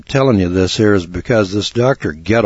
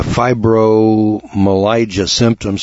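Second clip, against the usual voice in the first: slow careful pronunciation; 2 semitones higher, much slower than usual. Shown as a demonstration. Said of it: "That's a bad word".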